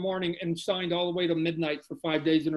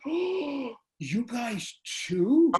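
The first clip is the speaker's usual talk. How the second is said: high, slow, drawn-out mock surprise; hammed-up who-knew surprise; 4 semitones higher, much slower than usual. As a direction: play it up as a fake realization.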